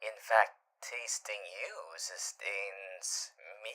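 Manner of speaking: slow, soft intimate whisper. Acted. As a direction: breathe it close to the ear.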